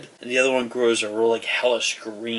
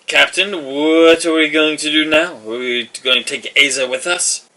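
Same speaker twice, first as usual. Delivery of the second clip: a hint of a louder, higher soldier; calling soldier; 5 semitones higher, 9 dB louder than usual. Knight asks the captain about Aza, lightly voiced. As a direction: call across to the captain.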